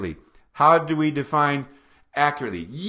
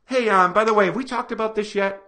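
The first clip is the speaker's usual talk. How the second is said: light, easy and unthreatening; gentle friendly question; 2 semitones higher, faster than usual. Shown as a demonstration. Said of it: "What if he said it like this?".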